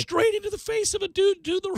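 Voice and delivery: high-pitched, breaking into laughter; cracking up. Real, not acted. Host retelling a ball hitting a spectator, cracking up. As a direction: lose it laughing as the sentence goes.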